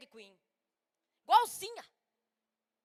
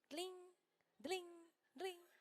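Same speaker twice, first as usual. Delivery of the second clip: soft imitated little bell ding; bell tinkle; 2 semitones higher, 13 dB quieter, much slower than usual. Preacher imitates the ringing nail charm, soft tinkling. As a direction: tinkle it softly like a tiny bell. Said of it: "que fazia barulho".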